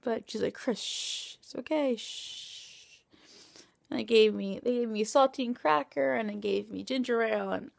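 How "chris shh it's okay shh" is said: soft whispered shushing; whispered reassurance from mom; mother hushing. Retold or imitated. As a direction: hush her gently like a mom. Mother calming her.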